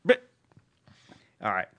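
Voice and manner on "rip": Comedy-band singer voice. Acted. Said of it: "Friday the Conchords guy".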